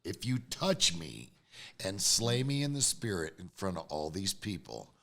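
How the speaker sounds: low-pitched, deliberate warning; low threat. Retold or imitated. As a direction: lay down a low, measured threat. Retelling own low threat.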